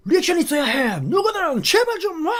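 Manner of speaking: high, strained mock yell, stretching the words; 엔지 감독 angry rant. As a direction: imitate an enraged coach berating the players. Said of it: "엄청난 분노로 화를 내고".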